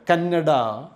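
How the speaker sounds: "Kannada" with a long, held "nn"; double consonant. Shown as a demonstration. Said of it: "nna is there".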